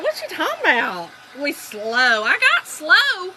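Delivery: loud retold protest, stretched at the end; mock-indignant. Wife retells her comeback to husband, mock-indignant. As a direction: throw the insult back with playful outrage. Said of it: "Ooh, I was mad".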